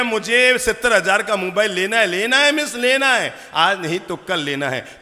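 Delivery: mimicking a stubborn child demanding a phone. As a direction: whine it like a kid who wants the phone.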